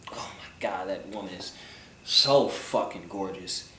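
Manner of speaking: breathless whisper of awe; awed whisper. Real, not acted. Vlogger gazing at Kalani up close, awed whisper. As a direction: whisper it, lost in admiration. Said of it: "awed at her beauty".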